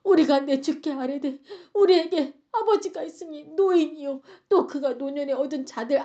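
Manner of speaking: acted imploring speech, mildly intense; forceful plea. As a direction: press your case to the master. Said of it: "더 강력하게 얘기를 하는".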